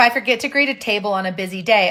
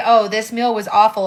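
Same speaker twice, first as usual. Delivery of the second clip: ordinary talk, nothing marked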